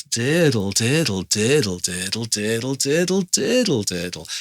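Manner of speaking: lilting "diddle" chain, leaning long on each "did"; emphasized syllables. Shown as a demonstration. Teacher adds emphasis to certain syllables, lilting "diddle". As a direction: stress "did", let "dle" fall away, arching up near the end. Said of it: "adding emphasis to certain syllables".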